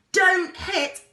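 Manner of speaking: very loud, high and slow roar; roaring over the engine. A narrator's reading. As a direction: bellow the warning. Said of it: "roared the explorer".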